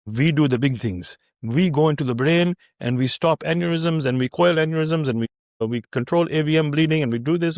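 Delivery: imitated Indian-accented boast, deliberately emphatic. Mentor selling his specialty to trainee, Indian accent. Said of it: "In, in his Indian accent".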